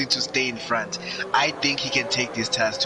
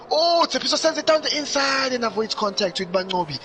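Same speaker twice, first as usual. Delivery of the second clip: excited; 12 semitones higher than usual. Real, not acted. Sudden near-contact in the race.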